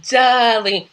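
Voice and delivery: drawn-out mock British "darling"; rough attempt at a British accent; Alexis. Alexis answers Crystal in soap dialogue, hammy British accent. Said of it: "in her British accent".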